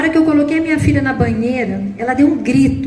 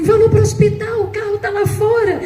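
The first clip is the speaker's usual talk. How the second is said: friend's shout; 7 semitones higher than usual. Retold or imitated. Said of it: "ela gritava assim".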